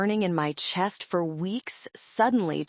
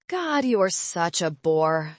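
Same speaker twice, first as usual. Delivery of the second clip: eye-rolling contempt; slower than usual. Acted. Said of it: "she rolled her eyes".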